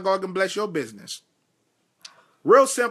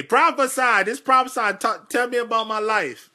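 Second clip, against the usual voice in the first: mimicked eager churchgoers; 4 semitones higher than usual. Preacher imitating churchgoers who want prophecy, mock demanding. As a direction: lightly mimic people clamoring for prophecy.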